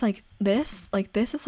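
lighter, softened demo voice. Shown as a demonstration. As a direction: soften the tone for contrast. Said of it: "like, a lot softer".

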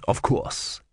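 hushed. Acted. Vorbis drops voice.

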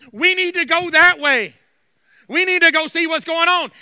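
loud, emphatic church preaching; full-force preaching. Real, not acted. Pastor rousing his congregation, full-force preaching. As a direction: preach it hard, punching the key words.

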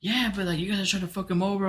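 high, complaining wife voice; imitated wife. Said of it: "She's like".

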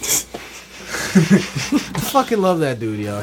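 real laughing affection, stretched slow; laughing gush. Real, not acted.

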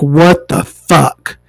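slow, drawn-out disbelief; baffled disbelief. Retold or imitated. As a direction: stare at the menu in shock. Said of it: "it's like".

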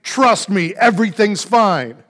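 mock thunderous voice of God; booming voice. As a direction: boom it down from the heavens. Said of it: "a booming voice say".

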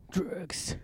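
hushed secret word; whisper. Real, not acted. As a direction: whisper it like a confession. Whispered confession.

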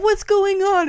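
high, loud startled demand; alarmed mom imitation. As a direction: burst in as a worried mother. Alarmed mom bursts in, voiced.

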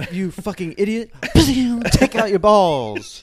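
hammed-up trainer challenge; mock angry challenge. Acted Pokemon rival showdown.

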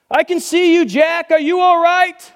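lightly voiced God checking on Jack; calm voice above. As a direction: call down kindly.

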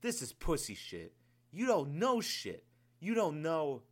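building fury. Acted. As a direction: build from scolding to yelling. Commander berates crying sergeant.

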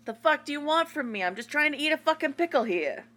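high, fast New York tough guy; New Yorker accent. Pretend. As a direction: snap it out like an annoyed New Yorker. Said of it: "our default is New Yorker".

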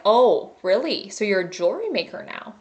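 rude sarcasm. Retold or imitated. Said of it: "I'm just being kind of rude".

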